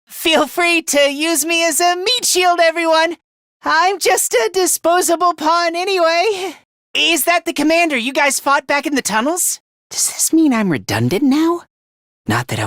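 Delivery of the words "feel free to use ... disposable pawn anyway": higher, nervous self-abasing voice; anxious self-deprecation. Acted. Fighter offering himself as a meat shield, self-deprecating. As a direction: offer yourself up in a pitched-up voice.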